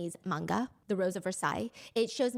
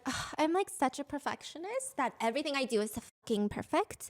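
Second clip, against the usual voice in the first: fake self-deprecation; 2 semitones higher than usual. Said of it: "It's like".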